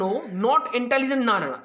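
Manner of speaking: usual speaking voice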